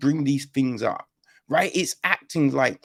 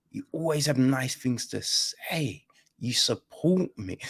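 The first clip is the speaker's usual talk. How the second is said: sincere reassurance. Retold or imitated. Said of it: "It's just like, listen".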